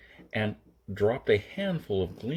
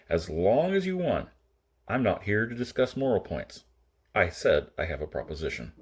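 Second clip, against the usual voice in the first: lightly lowered voice for the gunman, level; 2 semitones lower than usual. Acted. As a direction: keep it even and cold. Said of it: "in his same level voice".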